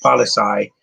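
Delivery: Polizei said the German way, ending like "tsai"; German pronunciation. Shown as a demonstration. Showing viewers German for police, German pronunciation of Polizei. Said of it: "that's how they say police in German".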